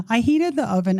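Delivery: laughing at the silliness of it; breaking into laughter mid-sentence. Real, not acted. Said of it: "I can laugh because some of it is silly".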